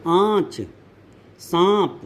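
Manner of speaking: आँच and सांप with long nasalised vowels; anunasik pronunciation. Shown as a demonstration. Teacher giving anunasik examples, nasalised vowels in आँच and सांप. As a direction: say आँच, सांप singly, vowels through mouth and nose. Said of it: "मुंह से भी और नाक से भी".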